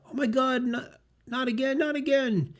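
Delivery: high, slow distressed wail; distressed girl. Acted. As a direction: wail it high and slowly, mock despair. Gwen despairing again.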